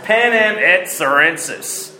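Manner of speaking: slow, deliberate Latin pronunciation; attempted Latin accent. Shown as a demonstration. Preacher repeating the phrase after doubting his accent, attempted Latin accent. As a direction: spell it out slowly in an amateur Latin accent. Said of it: "if I got the accent correct".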